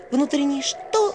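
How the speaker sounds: high, slow, puzzled question; puzzled girl voice. A narrator's reading. Vasilisa baffled by the owl's inner compass, slow high question. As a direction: ask it back slowly, baffled.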